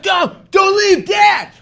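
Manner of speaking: put-on high, loud, slow child's wail; child's pleading shout. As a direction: beg him to stay like a little kid. Kid begging him not to leave.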